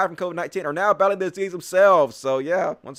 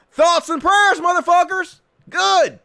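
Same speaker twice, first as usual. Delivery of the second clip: gleeful mock sympathy; 12 semitones higher, 6 dB louder, slower than usual. Real, not acted. Gloating at church losses.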